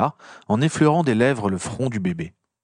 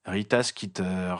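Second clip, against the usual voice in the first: grating; 3 semitones lower, 7 dB quieter, slower than usual. A narrator's reading. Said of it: "grinça Harry".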